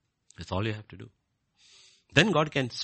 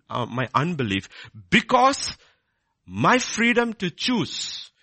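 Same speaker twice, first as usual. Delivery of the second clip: emphatic preaching; 9 semitones higher, 5 dB louder than usual. Acted. Preaches on free will.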